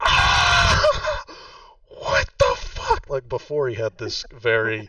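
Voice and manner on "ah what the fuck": shrieking high panicked scream; screaming his head off. Acted. Sir Pox seeing the fallen woman, panicked screaming. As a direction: scream it in raw panic at the top of the voice. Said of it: "he just starts screaming his head off".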